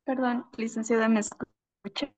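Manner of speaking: choppy cutting-out phone audio; breaking up over a bad connection; glitchy robotic call. Real, not acted. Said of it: "Sí, te escucho entrecortado".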